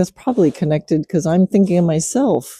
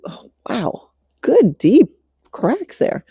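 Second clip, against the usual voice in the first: surprised; 7 semitones higher, slower than usual. Real, not acted. Surprised by the horse's joint cracks.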